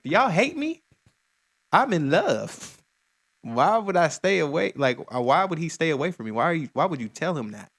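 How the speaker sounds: dramatic, exaggerated complaint; indignant lovestruck protest. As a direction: plead your case as a wronged girl in love. Acting out the singer's protest.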